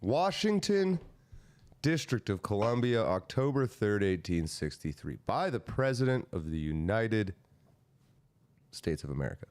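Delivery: formal, measured declaiming, phrase by phrase; proclamation reading. Acted. Reading the proclamation's heading to co-hosts, formal declaiming. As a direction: read out an official decree with pomp.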